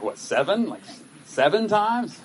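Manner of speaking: high, slow, stunned stammer; incredulous hesitation. Retold or imitated. Peter wondering aloud to Jesus, high and slow in disbelief. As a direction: imitate Peter gasping at the number. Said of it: "you can almost hear him thinking".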